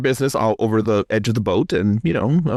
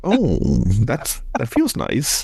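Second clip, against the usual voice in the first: mock pleasure; 4 semitones higher, much slower than usual. The speaker acts his pleased reaction.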